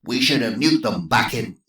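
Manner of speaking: put-on gruff old general; American general. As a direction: bluster at the table. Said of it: "the American general".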